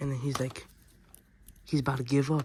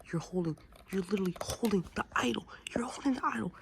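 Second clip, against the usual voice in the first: higher, hushed whisper; awed whisper; 8 semitones higher, faster than usual. Pretend. Kid narrating the hero taking the idol, whispered. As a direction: breathe it like a sacred moment.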